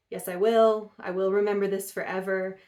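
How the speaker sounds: half-acted insistence, voice up; retold insistent protest. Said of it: "And she's like".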